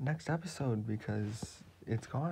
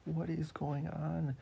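Papadato voice; 4 semitones higher than usual. Acted. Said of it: "Papadato, it's like".

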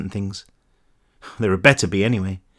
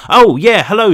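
higher, louder startled reply; flustered; 9 semitones higher, 8 dB louder than usual. A narrator's reading. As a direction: caught off guard on the phone. Caught off guard on phone.

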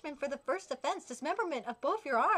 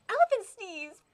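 louder, higher attack call; shouted attack name; 5 semitones higher, 6 dB louder than usual. Acted. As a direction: yell the move name.

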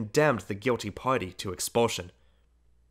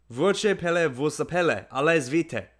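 a touch higher, like a startled bird; squeaking cry; 5 semitones higher, 3 dB louder than usual. A narrator's reading. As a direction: squeak it out, a little frightened. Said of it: "cried the governess, squeaking like a frightened bird".

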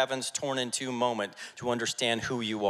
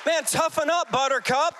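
high, loud scolding holler; raised-voice rebuke, pushed up high; tough-love shout; 13 semitones higher, 5 dB louder than usual. Retold or imitated. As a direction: shout it like a coach at a whiner. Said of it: "that's what someone told me".

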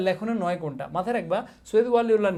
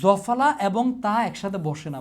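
slow emphatic rule; 4 dB louder, slower than usual. Shown as a demonstration. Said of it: "ভাই অনেকবার পড়াইছি।".

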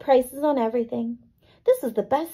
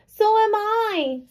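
much higher, slow sweet reply; called back; 11 semitones higher, 3 dB louder, much slower than usual. A narrator's reading. Girl calling up to her friend, called out. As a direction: call it up to the window.

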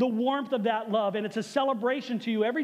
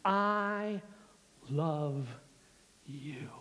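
softer and lower, fading into a whisper; tender whisper; 7 semitones lower, 6 dB quieter, much slower than usual. Acted. Pastor voicing God telling each listener he loves them, whispered. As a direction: breathe it like a tender secret. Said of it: "hear God say to us".

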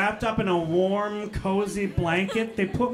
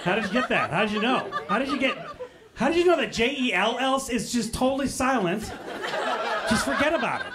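sarcastic praise; 3 semitones higher, faster than usual. Retold or imitated. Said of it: "I'm like".

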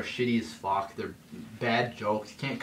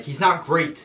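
higher, louder flat denial; indignant retort; 6 semitones higher, 8 dB louder than usual. Retold or imitated. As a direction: shut it down with annoyance. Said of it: "and I'm like".

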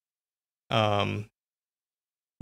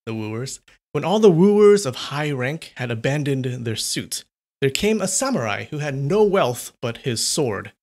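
measured, dramatic storytelling voice; story narration. A narrator's reading. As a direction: read it like an old ghost tale. Reads a ghost story aloud.

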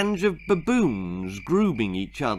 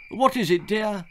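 doting husband; 9 semitones higher than usual. Acted. Father comforting his wife.

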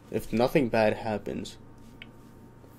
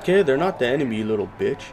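angry retort; 3 semitones higher, 6 dB louder, faster than usual. Real, not acted. Arguing with NPC about refugees.

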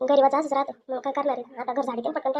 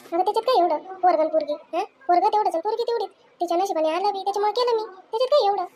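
proud boast; 5 semitones higher than usual. Acted. Mother-in-law boasting about wedding.

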